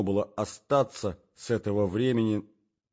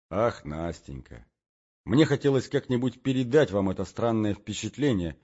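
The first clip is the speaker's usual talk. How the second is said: plaintive voice. Acted. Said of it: "начал я жалобным голосом". (жалобным голосом)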